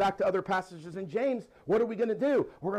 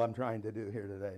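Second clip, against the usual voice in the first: lower, mock-deep voice; Manuel's deep voice; 8 semitones lower, 6 dB quieter than usual. Shown as a demonstration. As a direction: copy Manuel's deep voice, half joking. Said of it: "in the voice of Manuel".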